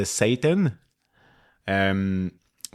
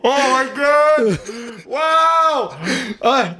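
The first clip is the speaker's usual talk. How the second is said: amazed; 13 semitones higher, much slower than usual. Real, not acted. Reacting to the intro.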